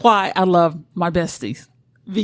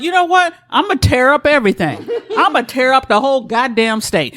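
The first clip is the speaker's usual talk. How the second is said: mock vengeful rant, raised pitch; acted angry ranting; 4 semitones higher than usual. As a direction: rant like a wronged girlfriend, playfully. Voices an enraged wronged girlfriend.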